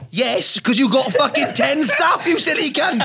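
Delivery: slow, pointed comic scolding rising in pitch; mock exasperated rant. Agent answering a comic losing money in Edinburgh, mock exasperation. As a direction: scold with mock outrage, stretching it out. Mocking retort to money complaint.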